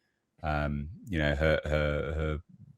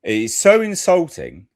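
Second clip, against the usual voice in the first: indignant, leaning hard on each word; real outrage, stretching the key word; outraged; 7 dB louder than usual. Real, not acted. Ranting at a debate clip.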